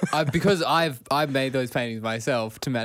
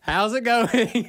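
slow, higher English lady greeting; drawn-out English accent, voiced higher; 7 semitones higher, much slower than usual. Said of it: "she had a very distinct voice".

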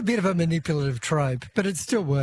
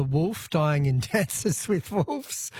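real chuckle slipping into the reading; slow read broken by a small laugh; stifled laugh; much slower than usual. Real, not acted. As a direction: read it out, trying not to laugh. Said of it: "no, I shouldn't laugh".

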